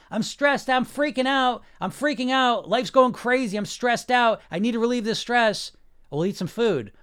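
high, loud, frantic stressed-out whine; mock freak-out, voice cracking with stress; panicked subconscious. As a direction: act out a panicking mind grabbing for food. Voicing the panicked subconscious mind.

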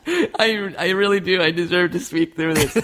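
half laughing, half fake crying; mock sob through laughs; crying, worn out. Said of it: "You can talk with your crying voice".

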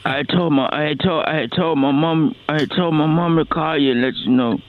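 hammed-up pained groan of a dying man; faking being near death. Prank caller faking hospital pain.

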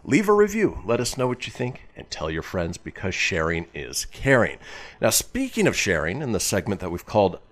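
upbeat radio announcer voice; radio host read. Acted. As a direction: sell the show like a DJ coming back from a break. Host reads show announcements.

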